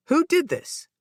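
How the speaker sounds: worried mother pressing; anxious question. A narrator's reading. Mother to hurt son in the elevator, anxious.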